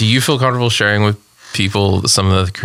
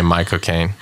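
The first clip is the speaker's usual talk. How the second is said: Michael Caine accent; 4 semitones lower, 3 dB quieter than usual. Shown as a demonstration. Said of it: "You say".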